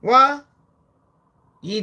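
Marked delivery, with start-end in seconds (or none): 0.0-0.4 higher, louder what; mock shock. Trump shocked at Elon, sharp high what. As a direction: yelp in disbelief.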